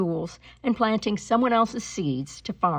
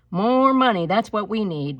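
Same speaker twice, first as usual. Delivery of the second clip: emphatic thought; 4 semitones higher, 6 dB louder than usual. Acted. Mary's thought.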